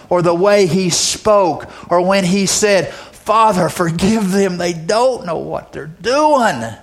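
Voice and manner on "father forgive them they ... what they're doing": slow, gentle prayer; Jesus on the cross, slow and gentle; tender plea. Retold or imitated. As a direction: forgive them slowly and tenderly.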